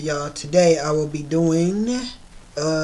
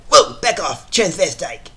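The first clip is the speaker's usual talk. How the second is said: Quagmire impression. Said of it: "my Quagmire voice impression".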